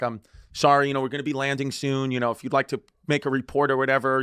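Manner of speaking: understated, even flight attendant patter; retold professional politeness. Flight attendant placating an angry passenger, mildly professional. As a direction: lightly imitate a composed apology. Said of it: "being, like, so professional".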